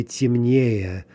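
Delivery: "темнее" stressed on не, no yo sound in the first syllable; unstressed тем, then lean on не in "темнее"; stress on the ending. Shown as a demonstration. Teacher shows stress jumping off the yo, stressing the ending of "темнее". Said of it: "the stress is jumping off of the yo".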